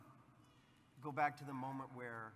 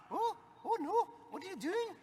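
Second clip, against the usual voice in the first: very high, loud mock fluster; over-the-top high impression of Ruth; imitating Ruth; 9 dB louder than usual. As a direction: squeak it out way up high in a panic. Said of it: "I'm like, "I know, in my mind, that's how she talks".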